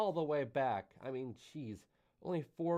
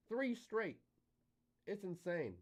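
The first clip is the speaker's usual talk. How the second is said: surprised; 7 semitones higher, 4 dB quieter, slower than usual. Real, not acted. Correcting himself, amazed.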